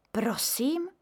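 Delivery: bewildered question; mother blinking at the neighbour; puzzled. A narrator's reading. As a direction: ask without understanding. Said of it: "zamrkala maminka nechápavě".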